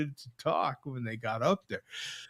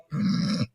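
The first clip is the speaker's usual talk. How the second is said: mock throat clearing; 7 dB quieter than usual. Shown as a demonstration. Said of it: "one of them accents and start".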